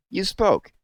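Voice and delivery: high, loud, stressing spoke; insistent. Acted. Owlet catching his dozing father, high insistent. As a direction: catch him out: You spoke!. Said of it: "Daddy, you can't be asleep".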